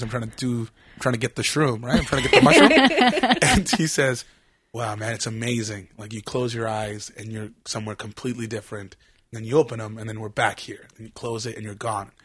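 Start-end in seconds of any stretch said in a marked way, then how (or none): 4.7-12.1 soft, low murmur of wonder; trippy awe, voiced softly and low; blissed-out stoned friend. Tripping friend describing closed-eye visions to him, soft stoned awe.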